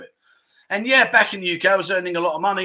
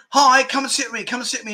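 put-on inviting bar girls; 7 semitones higher, faster than usual. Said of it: "And they're going".

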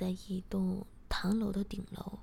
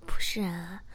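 louder, smiling brush-off; amused denial; 2 semitones lower, 7 dB louder than usual. A narrator's reading. Husband answers Xiaocui's question about last night, amused. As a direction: deny it with a light smile. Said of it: "我笑着说".

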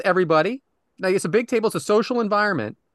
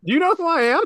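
wrestling promo; 7 semitones higher than usual. Retold or imitated. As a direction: cut a brash wrestling promo. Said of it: "I went over to him and I said".

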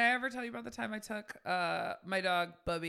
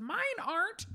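curt snooty reply; 11 semitones higher than usual. Retold or imitated. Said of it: "And she goes".

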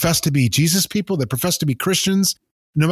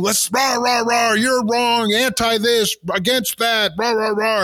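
higher-pitched mock rally chant; mock partisan raving; 5 semitones higher, slower than usual. Host mimics people waving red, white and blue, mock raving. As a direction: imitate a flag-waving political cheerleader, pitched up. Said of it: "standing out there raving the red".

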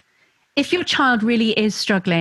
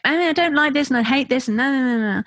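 lightly voiced whining kid, a bit higher; whinging child; 5 semitones higher than usual. Child vents to mom in a light mock whine. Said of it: "or it could just be through whinging".

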